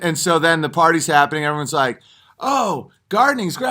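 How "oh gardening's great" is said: high, chirpy fake enthusiasm; mock eager guest. Party guest told to avoid topics, high fake cheer. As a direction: squeak out forced delight about gardening.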